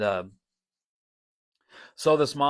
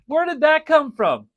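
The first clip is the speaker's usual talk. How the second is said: amazed repeat; 10 dB louder than usual. Real, not acted. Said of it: "repeats in wonder".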